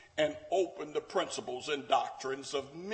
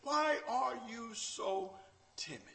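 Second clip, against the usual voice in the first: gentle question; 5 semitones higher, 5 dB quieter than usual. Acted. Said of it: "He said".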